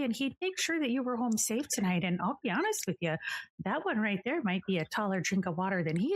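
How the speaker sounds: granny voice. Acted. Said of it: "She does tell you that".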